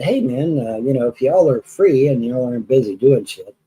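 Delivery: casual, slow-trailing retold plea; half-hearted appeal. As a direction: ask a favor without much hope. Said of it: "I just kinda half-heartedly said".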